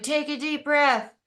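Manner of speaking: high, slow mock coaching voice; imitating someone coaxing a panicker to breathe; calm helper. Helper urging a panicking person, in a high slow mock-soothing voice. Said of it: "they're like".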